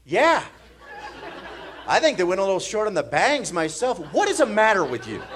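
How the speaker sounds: mock indignant. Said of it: "I just went".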